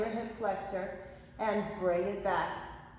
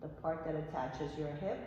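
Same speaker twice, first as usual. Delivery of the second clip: soft calm cueing; 5 semitones lower, 9 dB quieter than usual. Real, not acted. Cool-down stretch cue in class.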